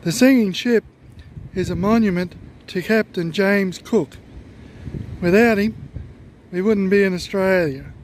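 muffled behind a mask; talking through a face mask. Real, not acted. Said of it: "talking through a mask".

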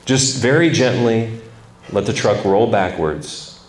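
a hint of a low, easy old man; lightly voiced grandfather sharing a trick, fast then slowing; grandfather's advice. Grandfather tells his grandson an old trick, low and easy. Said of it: "uh, he said".

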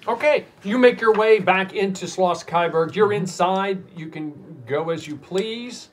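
lifted, energetic narration; game master scene-setting. A narrator's reading. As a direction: raise the voice to open a new scene.

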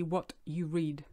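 "What you read." said slowly, word by word; word-for-word gloss, unhurried; slow literal translation. Shown as a demonstration. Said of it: "We actually say".

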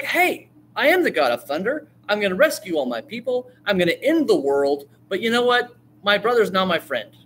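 high, lightly voiced cheerful hero; a hint of a boastful god; upbeat Thor. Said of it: "he's like".

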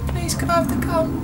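very high, soft little voice; mock pleading. Player asking game character for the gun, high mock plea. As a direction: ask sweetly in a squeaky, softened voice.

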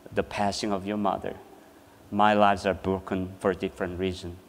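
low, soft, subdued delivery; hushed consoling. Retold or imitated. Mother consoles bereaved children, hushed. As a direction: gently share the brokenness, keeping it low.

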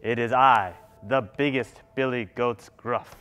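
lightly voiced big, steady goat; biggest billy goat. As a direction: announce yourself as the biggest goat. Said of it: "the big billy goat hears this and goes".

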